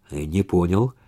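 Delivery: quiet, level and unruffled; no trace of fear, just calm; calm, unafraid. A narrator's reading. Flat-out calm reply to the intruders. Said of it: "спокойно, без тени страха произнёс".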